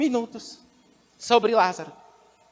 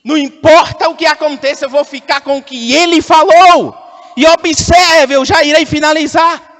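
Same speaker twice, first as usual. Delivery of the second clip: raised, emphatic preaching voice; pregação enfática; 4 semitones higher, 6 dB louder than usual. Real, not acted. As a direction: declare it firmly to the congregation. Prega com força. (pregação firme, voz elevada)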